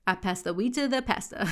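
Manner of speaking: Pastor as "pah-stuh" in a British accent; British reading with a flat "e" in pastor. Shown as a demonstration. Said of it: "American accent".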